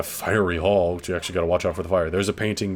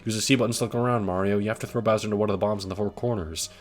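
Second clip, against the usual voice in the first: Princess Peach voice; 3 semitones higher than usual. Acted. Reading Peach's sign aloud.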